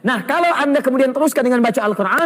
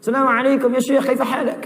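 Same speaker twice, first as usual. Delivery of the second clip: Arabic greeting in an imitated Arab accent, pitched up; 4 semitones higher than usual. Shown as a demonstration. Preacher shows Indonesians can sound like Arabs, imitated Arab accent. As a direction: greet a sheikh like a native Arab speaker. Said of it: "bahasa Arab bisa seperti orang Arab".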